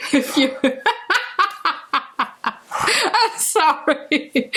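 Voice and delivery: laughing. Real, not acted. Apologizes through laughter after joke.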